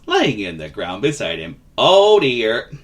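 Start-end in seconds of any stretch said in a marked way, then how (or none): 1.8-2.7 kindly vagabond. Acted. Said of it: "he was a kindly vagabond".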